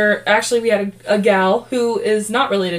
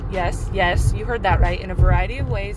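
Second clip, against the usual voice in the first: upbeat sponsor read, selling it. Acted. Host reads sponsor ad to listeners, upbeat ad read. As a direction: pitch Anchor to the podcast listeners.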